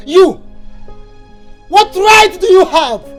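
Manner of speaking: indignant challenge, firmly pushed out; angry rebuke. Acted. Man challenged over punishing his daughter, angry. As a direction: round on them indignantly. Husband rebukes questioner in quarrel.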